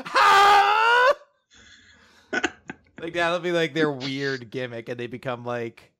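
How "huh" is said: very high, screeched "huh?"; comic shriek of disbelief, held long; biggest huh. Acted. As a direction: scream it as the absurd topper. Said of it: "the last one's like".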